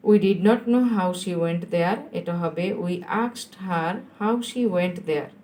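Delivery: drawn-out words for pupils copying; slow dictation. Shown as a demonstration. Teacher repeats the answer for pupils to write, slow dictation. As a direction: dictate it slowly in chunks.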